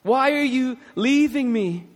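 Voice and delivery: drawn-out, imploring mock plea; imagined questioning of God. Preacher voices Jesus questioning God on the cross, pleading questioning. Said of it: "Questioning God".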